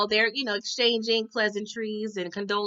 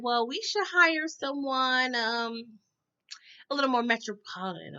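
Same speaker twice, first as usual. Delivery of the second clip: mock snooty wife; 4 dB quieter than usual. Vlogger imitating the wife talking to her husband in bed, mock snooty. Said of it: "she was like".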